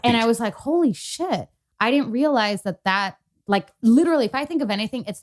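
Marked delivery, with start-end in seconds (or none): 0.5-1.5 retold astonishment, pitched up; mildly stunned, higher-pitched reaction; stunned realization. Retells her stunned realization.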